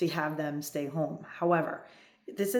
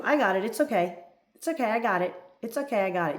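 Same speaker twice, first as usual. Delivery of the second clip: rapid, higher, louder refusals, repeated reflexively; brushing off help; 5 semitones higher, 4 dB louder, faster than usual. Shown as a demonstration. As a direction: fend off his help, hurried and insistent. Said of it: "See the difference?".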